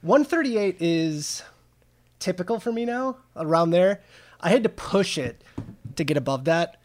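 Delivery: winded after hard exercise; breathless, catching air between phrases; out of breath. Real, not acted. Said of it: "Oh man, I'm winded".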